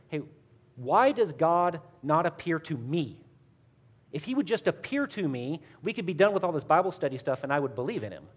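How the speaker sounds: mildly exasperated challenge, stressing each complaint; frustrated. Retold or imitated. Non-believer friend challenging his Bible study partner about God, frustrated. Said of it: "he's really frustrated".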